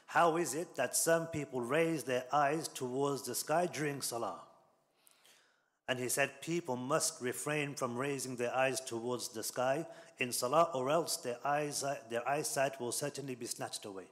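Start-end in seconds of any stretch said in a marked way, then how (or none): 0.1-4.4 measured, slightly raised quoted rebuke; lightly stern, slow and emphatic quote; stern admonition. Retold or imitated. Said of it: "these are very, uh, stern words". 6.4-14.0 stern warning. Retold or imitated. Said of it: "stern words from the Messenger of Allah".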